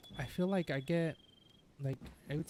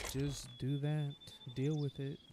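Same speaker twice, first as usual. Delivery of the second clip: resigned shrug; 4 dB louder than usual. Pretend. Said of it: "I'm gonna have to just do that".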